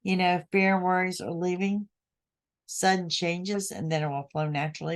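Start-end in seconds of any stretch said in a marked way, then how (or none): 2.7-3.7 sudden changes said slowly, leaning on "sudden"; slow down and hit "sudden"; stress on sudden. Shown as a demonstration. Telling listeners to expect change, slow stress on "sudden". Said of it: "I really want to emphasize the word sudden".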